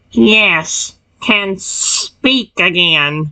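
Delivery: snake-like hiss through the words. Narrating a game, a character who can speak again still sounds like a snake, hissing. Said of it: "Why are you still making the hissing sound?".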